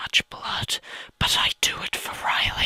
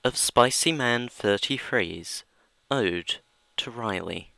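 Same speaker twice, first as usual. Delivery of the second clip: announcer introducing the reading; dramatic reading intro; 2 semitones higher than usual. Acted. Narrator introducing Spicy Man's ode, mock grave. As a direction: set up the story with mock gravity. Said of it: "a dramatic reading".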